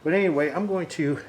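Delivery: muffled behind a mask; talking through a face mask. Real, not acted. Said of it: "I'm talking through a face mask".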